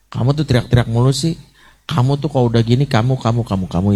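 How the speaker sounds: mother blaming a crying child, mock nagging; nagging scold. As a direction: rattle off blame at the child. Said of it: "kalau you message".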